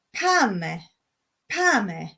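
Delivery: pame with the weight on pa; stress on pa. Shown as a demonstration. Teaching viewers the Cypriot word, pame stressed on pa. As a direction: hit the pa in pame. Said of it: "The emphasis on the pa".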